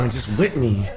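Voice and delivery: soft breathy teasing plea; mock whisper. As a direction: murmur it like a bedroom tease. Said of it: "Did you whisper into the camera".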